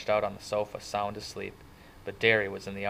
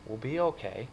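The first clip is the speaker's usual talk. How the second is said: gentle, slightly raised-pitch comfort; soft reassurance; 3 semitones higher than usual. A narrator's reading. Friend comforting crying kid, soft and reassuring. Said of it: "he said softly".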